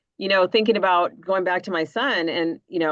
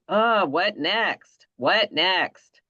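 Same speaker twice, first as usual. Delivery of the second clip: stressed-out parent; 2 semitones higher, much slower than usual. Retold or imitated. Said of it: "sometimes we get so stressed out".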